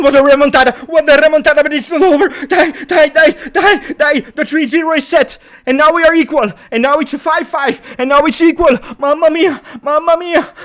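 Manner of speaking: shouting at the top of the lungs, very high; ecstatic celebration. Real, not acted. Fan commentator celebrating the comeback, screaming in delight. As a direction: roar out the comeback in pure joy.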